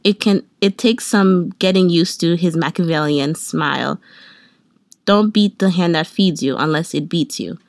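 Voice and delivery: reading a gloomy journal entry aloud; solemn mock-poetic reading; mock dramatic reading. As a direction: read it like dark poetry. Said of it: "this is how it goes".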